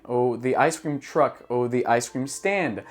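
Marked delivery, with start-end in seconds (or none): 0.4-1.4 slow, careful the ice cream truck; natural English phrase. Shown as a demonstration. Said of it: "A gente fala". 1.7-2.8 slow, careful the ice cream stand; natural English phrase. Shown as a demonstration. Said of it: "A gente fala".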